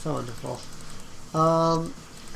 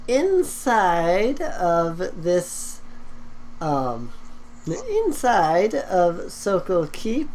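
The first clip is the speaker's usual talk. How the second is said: skeleton voice; 4 semitones higher than usual. Acted. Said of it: "he says".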